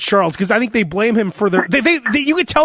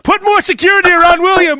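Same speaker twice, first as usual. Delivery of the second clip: dark lord; 11 semitones higher, 5 dB louder than usual. Pretend. Royal order, mirrored by S1.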